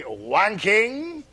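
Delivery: put-on drawn-out French-accented "Wanking"; cod French accent. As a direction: quote it in a silly French accent. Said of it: "having somebody say".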